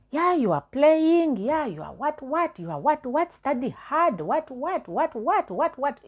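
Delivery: high, loud nagging mother, drawn out at first; mock the mother telling her off; scolding mother. Mother scolding her daughter over failed results, shrill high nagging. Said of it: "my mother, being my mother".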